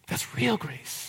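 "real grace" dit tout bas, presque soufflé; hushed repeat. Shown as a demonstration. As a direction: let "That's real grace" fade to near silence.

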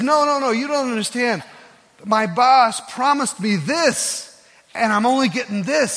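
no no no, he was cheated, let it out; indignant protest. Retold or imitated. Mike protesting to the pastor, loud and exasperated. Mike retelling his anger at boss.

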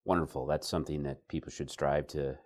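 dry mock approval; deadpan sarcasm; sarcastic. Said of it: "A little bit of sarcasm".

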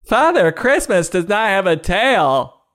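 very high, slow squeaky voice; high cry. Acted. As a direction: squeak it out slowly like a cartoon. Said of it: "Debbie cried".

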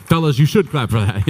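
rally the fellas to clap; loud call. Real, not acted.

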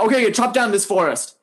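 mildly flustered storytelling voice; a touch of desperation in a hurried order; lightly acted desperate man. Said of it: "the man starts to get desperate".

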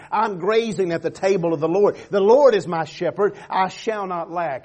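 loud, high, building to a shout; full-force preaching. Acted. Preacher proclaiming the Lord as shepherd, shouting. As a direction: cry it out to the rafters.

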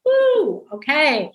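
put-on sudden high yelp from a teen, put off; kid's wary reaction. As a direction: jump way up in pitch, mock startled "woo". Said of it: "then they're like".

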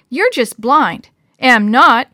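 put-on loud childish bickering; squabbling. A narrator's reading. Brother and sister bicker over a pitch, squabbling loudly. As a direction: trade insistent jabs like squabbling kids.

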